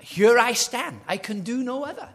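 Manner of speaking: loud, high, proclaimed with conviction; defiant declaration. Retold or imitated. Luther before the Diet, ringing out his stand.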